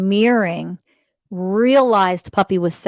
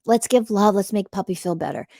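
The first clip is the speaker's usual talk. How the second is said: tender parent voice. Shown as a demonstration. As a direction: soothe a small child over a sad puppy. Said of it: "What should have happened was".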